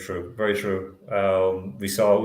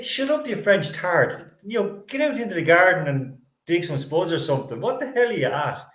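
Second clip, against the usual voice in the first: higher-pitched mock telling-off; mock angry scolding; 6 semitones higher than usual. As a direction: snap back at her in jest, pitched up high. Mock retort to the ad.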